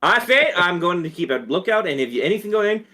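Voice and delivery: hammed-up Southern rooster; Foghorn Leghorn. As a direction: bluster like a cartoon rooster. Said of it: "you could do Foghorn Leghorn".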